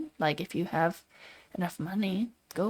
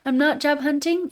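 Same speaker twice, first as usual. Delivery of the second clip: loud and high, stress on not; emphatic denial; 7 semitones higher, 6 dB louder than usual. Real, not acted. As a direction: deny it flatly, punching not. Firm denial, first take.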